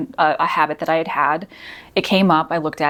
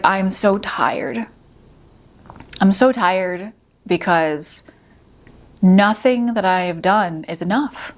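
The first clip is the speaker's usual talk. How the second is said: tearful; 2 semitones higher, slower than usual. Retold or imitated. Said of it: "I could feel the tears in my eyes".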